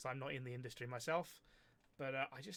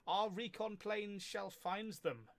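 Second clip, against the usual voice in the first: dramatic voice; 6 semitones higher, much slower than usual. Acted. Reads odd line in voice.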